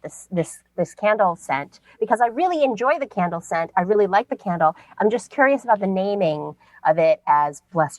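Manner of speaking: mock posh British voicemail, lightly voiced; put-on British accent. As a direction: leave a message in a fake British accent. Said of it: "she sounds like fake British".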